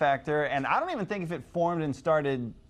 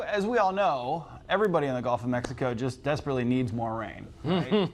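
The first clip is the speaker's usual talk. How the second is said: deadpan sarcasm passed off as common knowledge; sarcastic. Pretend. Forecaster joking to co-host about Gulf rain, sarcastic. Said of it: "That's pure sarcasm".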